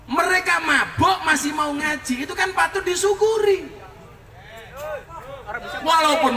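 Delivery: impassioned preaching. Real, not acted. Preacher urging the congregation to sit with sinners, impassioned. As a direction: drive the lesson home to the crowd.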